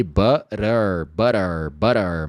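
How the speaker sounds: "butter" with a light tapped T and a soft "er" ending; "butter" ending in a relaxed "er"; soft final er. Shown as a demonstration. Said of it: "mais pra er". ("butter" com final suave em "er")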